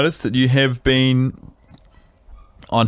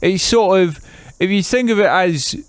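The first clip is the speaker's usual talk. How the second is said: put-on Keith's English accent. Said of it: "if I just start talking like this".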